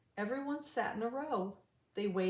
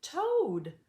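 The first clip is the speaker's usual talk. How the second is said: louder higher call to a friend; urgent higher call; 7 semitones higher, 6 dB louder than usual. A narrator's reading. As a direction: call Toad's name to get his attention. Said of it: "Blue said".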